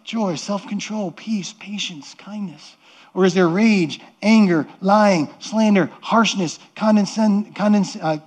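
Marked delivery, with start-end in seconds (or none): 0.0-2.8 slow, dropping to nearly a murmur; soft and slow, trailing away; softening to a hush. Real, not acted. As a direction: let the list fade gently, slower. Listing fruits, voice sinking away.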